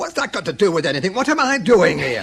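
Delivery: quick, rising exasperation; agitated demand. Acted. Suspect presses his interrogator, fast and exasperated.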